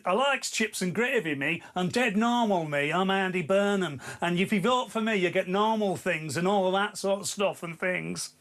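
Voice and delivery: a hint of a matey northern voice; Andy Burnham impression. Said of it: "your impression of Andy Burnham".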